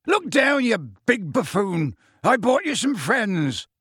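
very high, insistent calling; high, exasperated calls in short bursts; Hagrid shouting. Acted. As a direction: holler up at a big oblivious giant. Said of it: "Hagrid shouted".

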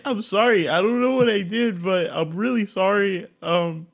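pitiful begging. Pretend. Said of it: "I'd beg".

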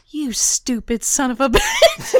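slow, drawn-out muttered insult, breaking into laughter; Biden. Retold or imitated. Biden to a newscaster at a press conference, slow mock insult. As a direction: imitate a politician's slow insult, cracking up. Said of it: "and he just goes".

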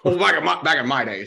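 lightly voiced old man; a hint of a creaky grandpa. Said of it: "trying to imitate an old person talking".

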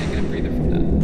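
whispered, no voice. Shown as a demonstration. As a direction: breathe the words out as a whisper. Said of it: "repeats the phrase in a new way".

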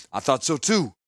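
tearful, choked-up words; sobbing. A narrator's reading. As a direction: say it through a sob. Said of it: "Krovax sobbed".

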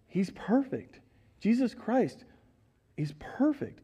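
whispered, hushed awe; reverent whisper. Real, not acted. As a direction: breathe it with reverence.

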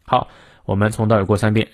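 ordinary talk

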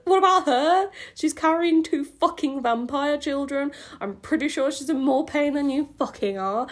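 indignant rant. Real, not acted.

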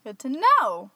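mock California echo; mocking California upspeak. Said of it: "That's a California thing".

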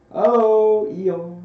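high, loud sing-out; cheerful call. A narrator's reading. Friends call to Eeyore on arriving, loud and cheerful. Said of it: "they called out cheerfully".

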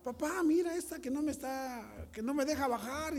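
high whiny tattletale to dad; a boy whining to his father, pitched high; tattling child. Retold or imitated. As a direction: complain to papa like a wronged little boy. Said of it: "le decía yo a mi papá".

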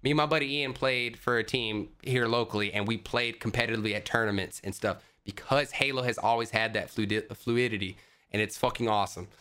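rushing, running out of air; all in one breath. Real, not acted. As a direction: rant without stopping to breathe. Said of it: "God, I'm out of breath".

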